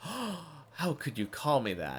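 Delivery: put-on feigned shock. Imagining your reaction when a streamer mispronounces your name, in feigned shock. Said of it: "Feign shock".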